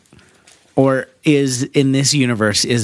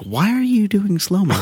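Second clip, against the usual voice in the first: laughing, incredulous; 8 semitones higher than usual. Retold or imitated. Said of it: "You're like".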